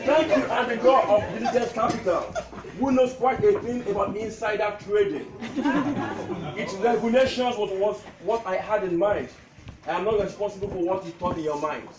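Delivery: measured recital, pausing between lines; comic tribute poem. Acted. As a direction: declaim witty verses to an amused crowd. Recites his poem to gathering.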